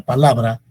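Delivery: pa-LA-bra, swell on LA; stress on middle syllable. Shown as a demonstration. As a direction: lift and stretch LA in "palabra". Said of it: "las sílabas átonas son".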